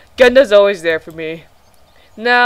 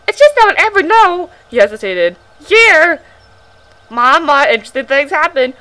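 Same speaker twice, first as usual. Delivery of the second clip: strained high crow voice; crow-like pioneer voice; 6 semitones higher, 4 dB louder than usual. Acted. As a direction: make him sound like a crow. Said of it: "making him sound like a crow".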